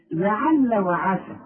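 لعل وعسى slowly, thin vowels on each ayn; slow, light-vowelled لعل وعسى; light ayn example. Shown as a demonstration. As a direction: keep both ayns light in لعل وعسى. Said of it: "عارف زي إيه".

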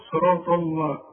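صراط الله with a thick l; wrong heavy lam. Shown as a demonstration. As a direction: carry the heaviness into the l of صراط الله. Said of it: "في غلط هنا تقول". (صراط الله بلام مفخمة)

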